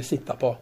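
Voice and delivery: "sitta på" with a broad -a ending on sitta; split infinitive. Shown as a demonstration. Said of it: "kløyvd infinitiv".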